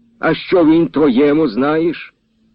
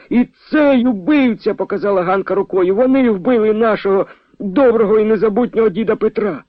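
frantic accusation; 10 semitones higher than usual. A narrator's reading. Hanka points at the second rider and screams accusation. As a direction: denounce them with everything you have.

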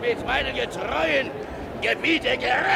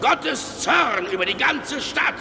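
angry denouncing; 4 semitones lower than usual. Acted. Preacher denouncing sinners in church.

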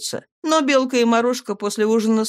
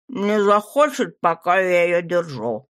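mouth full. Acted. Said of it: "с набитым ртом ответил парень".

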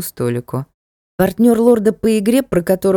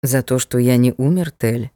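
gentle reproach; 6 semitones lower than usual. A narrator's reading. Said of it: "с мягкой укоризной спросил лорд Хальгер".

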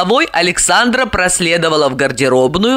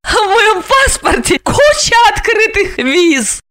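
gloating; 13 semitones higher than usual. A narrator's reading. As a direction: crow over him. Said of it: "Злорадно рассмеялась она". (злорадно, с вызовом)

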